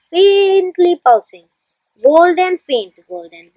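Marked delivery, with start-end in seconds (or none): 2.0-2.6 Golden punched louder, bright and full. Shown as a demonstration. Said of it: "and so on". 2.6-3.5 faint, golden dropped low and much softer. Shown as a demonstration. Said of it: "and so on".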